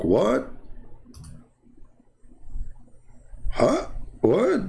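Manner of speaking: high-pitched stunned "Huh? What?"; shocked disbelief. Retold or imitated. Retelling the shock of meeting Adam, squeaky disbelief. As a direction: leap up in pitch, unable to believe it.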